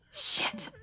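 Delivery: sudden high squeaky shit, dropped soft; a quick high fed-up swear; mock exasperated shit. Retelling her reaction to the move, high and soft. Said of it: "I was like".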